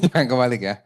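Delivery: quick, laughing "Jangan kebalik ya"; fast, chuckling "Jangan kebalik ya"; laughing repeat. Shown as a demonstration. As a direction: toss the warning off again with a laugh.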